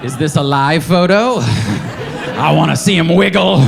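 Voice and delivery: slow, overpolite eager request; overly polite. Retold or imitated. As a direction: ask sweetly and too politely. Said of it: "like a very polite pedophile".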